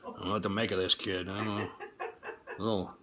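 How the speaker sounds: lightly voiced fatherly God, half proud; mild mock God, muttering aside to mother; God impression. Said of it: "I like God's voice".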